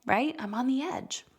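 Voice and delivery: a touch of edgy self-talk; mock agitated. Parent mimicking her own rising agitation. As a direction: play someone on the edge. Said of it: "I'm getting agitated".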